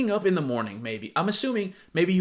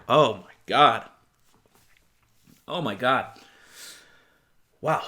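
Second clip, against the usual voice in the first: shocked disbelief; 4 semitones lower than usual. Real, not acted. Reacting to insulting text.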